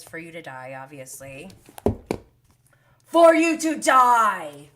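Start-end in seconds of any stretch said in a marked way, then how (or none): 3.1-4.7 loud, slow, delighted repeat of the quote; gleeful exclamation. Real, not acted. Vlogger relishing a singer's comeback, with loud glee. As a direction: savour the line with shocked glee.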